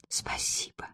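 barely audible whispered thanks. A narrator's reading. Ella whispers thanks for the money. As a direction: breathe your thanks. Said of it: "прошептала приятельница".

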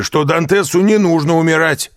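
high, loud tipsy plea; drunken urging. A narrator's reading. Caderousse insists to Danglars, high and loud. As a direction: press the point like a drunk.

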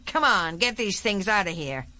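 brusque general. Acted. General telling his men to clear the bodies, brusque and commanding. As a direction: order the men about briskly.

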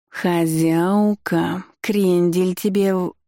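drawn-out meowing words; meowing cat voice. Acted. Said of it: "промяукали".

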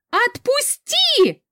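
high, slow, stretched scream; drawn-out scream. Acted. Heroine screams at her guardian to let go. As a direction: drag it out, fighting his grip.

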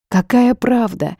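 high, slow, outraged question; Eva indignant at the bartender, high. A narrator's reading. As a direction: throw the question back at him. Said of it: "возмутилась я".

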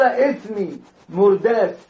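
"اسمي مرداس" slowly, with each س lisped into ث; تقليد اللثغة; lisp imitation. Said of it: "السين عنده خلاص صارت ثاء".

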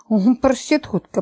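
ordinary delivery

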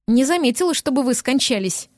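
understated angry retort; snapped back. Acted. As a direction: she snaps back at him, lightly voiced. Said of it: "рявкнула она в ответ". (сдержанно рявкнула в ответ)

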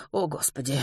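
soft, near-whispered sigh of words; hushed dismay. Acted. Mrs Pomeroy hears the baby crying, hushed dismay. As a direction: murmur it under your breath. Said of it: "прошептала миссис Померой".

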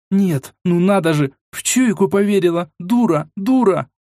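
high-pitched exasperated tirade; angry self-reproach. A narrator's reading. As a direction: curse your own stupidity. Raging at herself.

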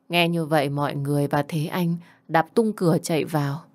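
usual speaking voice

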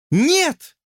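high loud cry; exclaiming. A narrator's reading. Lucy exclaiming no to George. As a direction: fling out the no. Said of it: "воскликнула она".

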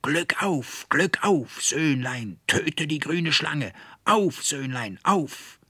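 high, shrill witch's scream, climbing wildly; a hag shrieking triumph through the air; screaming old witch. A narrator's reading. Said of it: "wild durch die Lüfte schreiend". (kreischende alte Hexe, sehr hoch und wild)

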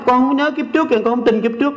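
lightly voiced stubborn believer; mock stubborn disciple. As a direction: act out a stubborn follower. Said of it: "Họ gặp thầy nói".

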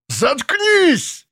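a very high shriek of Заткнись; shouting. Acted. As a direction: cut her off with a scream. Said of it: "закричал Ленц". (Ленц кричит на пленницу: заткнись)

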